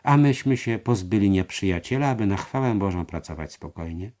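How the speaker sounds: voiced character lines. A narrator's reading. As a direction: speak the dialogue up, pushed out. Narrator voices character dialogue. (głośniej wypowiadane kwestie postaci)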